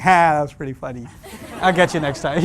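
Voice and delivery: chuckling through the words; laughing it off. Pretend. Teen laughing off friends' insults.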